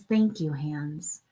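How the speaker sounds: quiet, loving gratitude; tender thanks. Shown as a demonstration. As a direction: reassure your hands they are safe.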